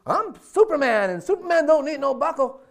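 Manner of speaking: high, loud mock boast; Muhammad Ali. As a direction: brag your way out of the order. Boxer boasts to stewardess.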